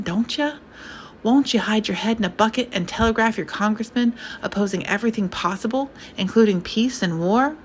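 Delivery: lightly voiced pompous old conservative; a hint of a fretting rich old man; a mild fussy old gentleman alarmed at the times; older conservative. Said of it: "An older voice, conservative".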